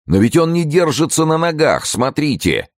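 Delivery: very high, distressed exclamation; alarmed protest. A narrator's reading. Women protesting he cannot stand, alarmed.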